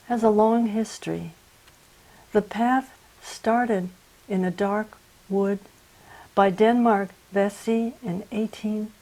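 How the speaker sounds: measured poem reading with long pauses between phrases; poetry reading. Acted. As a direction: read it solemnly, line by line. Reads own poem aloud.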